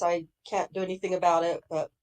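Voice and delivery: blocked nose, nasal sound. Real, not acted. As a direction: speak through a stuffy nose. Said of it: "I apologize for my nasally s-, voice".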